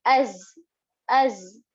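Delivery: "Az" as one syllable closing on a buzzed z; joined buzzing za. Shown as a demonstration. Teacher showing sukoon on za, buzzed "Az". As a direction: join hamza straight into the z of "Az". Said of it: "read it together with the previous".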